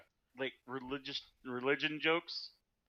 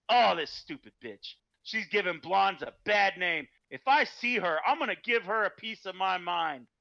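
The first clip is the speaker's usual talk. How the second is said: indignant mock rant, louder on the outbursts; really angry; 3 semitones higher, 4 dB louder than usual. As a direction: rant like a fed-up driver. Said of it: "really angry".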